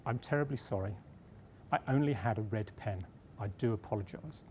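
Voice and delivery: put-on understated, very proper British accent; softly put-on British politeness; best British accent. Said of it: "in my best British accent".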